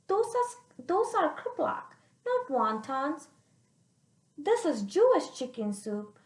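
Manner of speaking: a hint of a fond grandma correcting; lightly voiced grandma.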